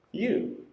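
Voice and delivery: "You" alone, pitched high and drawn out; single out "You" with a high swoop; stress on You. Shown as a demonstration. Preacher showing the word he emphasizes, "You" pitched high. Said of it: "I emphasize the word".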